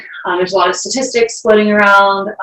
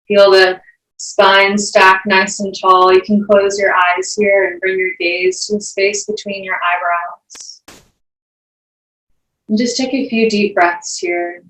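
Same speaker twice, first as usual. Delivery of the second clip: unhurried meditation teacher, long pauses between phrases; guided meditation. Acted. Yoga teacher guiding the class into breath and grounding, guided meditation. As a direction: guide them through each breath, leaving space.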